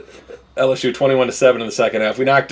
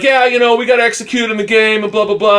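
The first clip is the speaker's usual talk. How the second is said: high, loud mock Southern coach; fake Southern accent; 10 semitones higher, 3 dB louder than usual. Podcaster mocking a football coach's press talk, fake Southern accent. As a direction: put on a phony Southern accent, pitched well up. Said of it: "This fake Southern accent".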